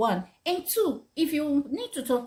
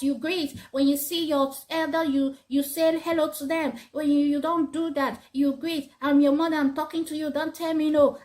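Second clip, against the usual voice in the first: scolding parent; 3 semitones higher than usual. Retold or imitated. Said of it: "scolding them and shouting".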